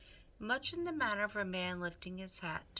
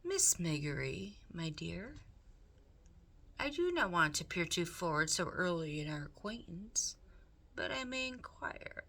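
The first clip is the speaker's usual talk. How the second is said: higher, smooth scheming rat, coaxing; Roscoe the rat; 4 semitones higher than usual. Acted. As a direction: purr it like a sly, charming villain. Roscoe flatters Meg.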